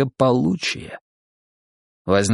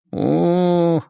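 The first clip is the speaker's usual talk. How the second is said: long, raised "ooh"; drawled, higher-pitched realization; drawn-out; 6 semitones higher than usual. A narrator's reading. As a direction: stretch it out knowingly. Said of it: "протянул Тимофеев".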